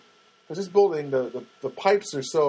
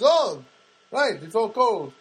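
high, slow dawning realisation; high and slow, as if just discovering it; mock Janet; 7 semitones higher, 4 dB louder, slower than usual. Landlady finally feeling the cold tap, high and slow.

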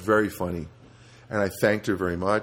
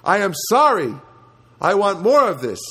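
mock outburst; 9 semitones higher, 6 dB louder than usual. Biting the corned beef, he shouts a mock change of heart. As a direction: ham it up like one bite changed your mind. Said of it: "you would say".

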